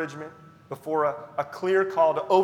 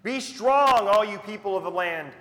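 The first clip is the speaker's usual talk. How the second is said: loud, high rallying call; rally the whole people; exhortation; 4 semitones higher, 6 dB louder than usual. Acted. Repeated exhortation from scripture.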